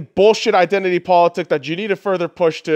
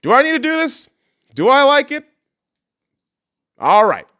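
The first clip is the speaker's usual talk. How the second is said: inner voice; 6 semitones higher, 4 dB louder than usual. Retold or imitated. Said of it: "more along the lines of".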